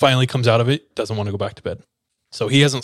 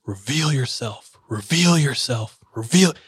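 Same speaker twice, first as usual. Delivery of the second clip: slow, held-back imitation of shouting; mock shout. Husband praying over a man, restrained mock shouting. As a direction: act out shouting without the volume. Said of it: "husband is shouting".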